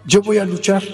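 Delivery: mildly defiant retold declaration; firm retold announcement. First defiant declaration to father.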